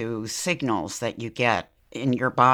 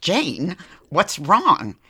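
concerned coworkers; 6 semitones higher, 6 dB louder, much slower than usual. Retold or imitated. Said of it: "looked up and said".

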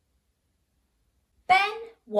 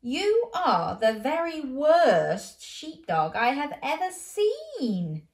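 stern farmer; 5 semitones higher, 3 dB louder, slower than usual. Acted. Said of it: "said the farmer".

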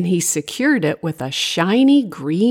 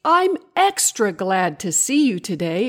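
high, delighted storybook greeting; mildly excited character welcome; exclaiming; 9 semitones higher than usual. A narrator's reading. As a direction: start high on the name, glad to see him. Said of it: "exclaimed Larissa".

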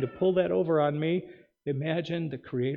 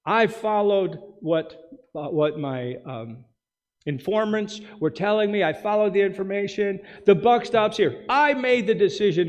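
mock excuse quote; 5 semitones higher, 3 dB louder than usual. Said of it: "what he wound up saying".

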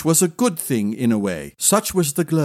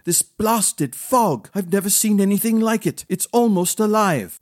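frustrated; 5 semitones higher than usual. Acted. Prince cursing the fog.

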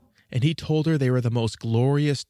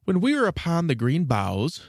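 proud matches; 5 semitones higher than usual. Acted. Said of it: "they said".

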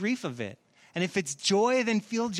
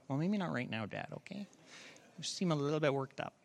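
daughter's calm reply; 6 semitones lower, 10 dB quieter, faster than usual. Retold or imitated. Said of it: "She was like".

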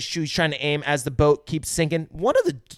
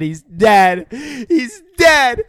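rising, louder mock panic wail; 9 semitones higher, 8 dB louder, much slower than usual. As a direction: ham up the horror as it climbs. Crew realizing Hooper is gone.

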